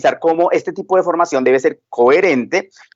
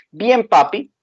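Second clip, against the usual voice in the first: lightly voiced small daughter, higher; little girl; 5 semitones higher, slower than usual. Five-year-old daughter answers her papa in a higher child voice.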